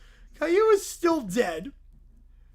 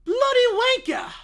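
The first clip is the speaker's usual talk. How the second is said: much higher, loud mock-posh "Bloody wanker!"; mock elegant; 12 semitones higher, 8 dB louder than usual. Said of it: "you must pronounce it elegantly".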